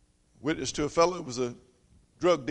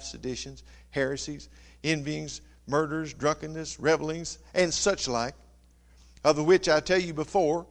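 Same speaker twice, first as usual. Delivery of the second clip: measured sermon reading of scripture; steady pulpit reading of a Bible list. Acted. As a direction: read the verses out to the congregation. Reads Galatians aloud.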